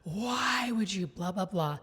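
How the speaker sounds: drawn-out exasperated mock wail; retold indignant protest; mock livid. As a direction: imitate a livid boyfriend, stretching the why. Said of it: "He is fucking livid. He's like".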